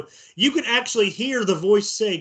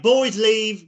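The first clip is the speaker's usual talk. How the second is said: imitated British man, a bit louder; British accent; 2 semitones higher, 5 dB louder than usual. Shown as a demonstration. Host showing friends what the recorded voice may be, imitated British accent. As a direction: say it like a British dude. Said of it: "British dude would be hanging out".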